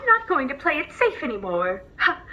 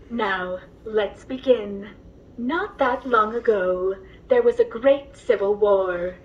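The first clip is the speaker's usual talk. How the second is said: gentle storyteller voice, unhurried; bedtime story narration. Acted. Droid reading a bedtime story to the passenger, gently.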